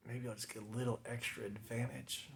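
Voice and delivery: murmured thought. Retold or imitated. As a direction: say it quietly, as if to yourself. Quoting own sly thought.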